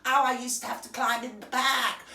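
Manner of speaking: lightly voiced prissy starlet; a light sneering imitation; a touch of a put-on American voice; mock Meghan. Mocking quote of Meghan.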